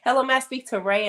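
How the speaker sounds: quick imitation of an Indiana Southern caller; heavy Indiana Southern accent. Man calling to speak to Ray, imitated Indiana Southern accent. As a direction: put on an Indiana Southern phone voice. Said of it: "Indiana Southern accent".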